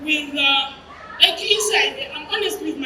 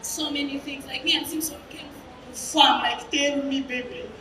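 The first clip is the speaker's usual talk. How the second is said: imitated crying; 2 semitones lower, 7 dB quieter than usual. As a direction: softly act out his grief. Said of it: "and he's crying".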